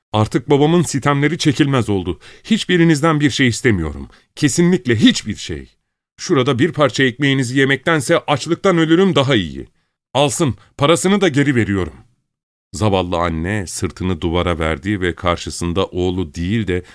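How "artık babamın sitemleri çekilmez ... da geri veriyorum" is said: high-pitched, raised angry voice; shrill furious shouting. A narrator's reading. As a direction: son yelling out a defiant refusal. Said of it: "tiz sesiyle avazı çıktığı kadar bağırarak".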